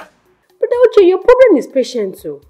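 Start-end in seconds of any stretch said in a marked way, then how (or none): 0.0-1.1 high and slow, dragging out Uche; drawn-out scolding call. Acted. Sister scolds her brother for impatience, high and slow. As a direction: stretch his name out like a reproach.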